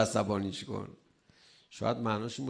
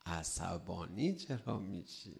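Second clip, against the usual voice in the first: repeated softly and slowly, almost to himself; a quiet, slow echo of the question; 4 semitones lower, 8 dB quieter, slower than usual. Shown as a demonstration. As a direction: drop the voice and ask it again gently. Same question repeated much softer.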